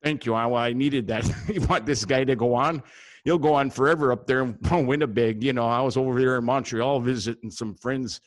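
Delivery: put-on folksy Wisconsin accent, speaking up. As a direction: chat on in a loud up-north Wisconsin voice. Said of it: "I got a guy up there in, uh, Wisconsin".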